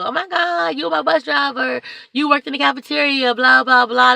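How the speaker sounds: high, delighted recognition; squealing with surprise at an old bus driver; excited greeting. Retold or imitated. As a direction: gush like you just spotted an old friend. Greeting old school workers.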